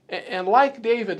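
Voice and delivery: ordinary delivery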